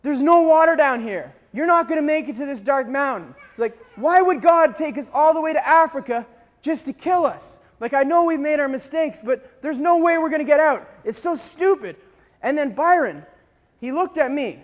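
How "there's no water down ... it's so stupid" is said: frustrated outburst at a friend; acted angry complaint; retold yelling. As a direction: vent despair in a raised voice. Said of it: "So I started yelling at Byron".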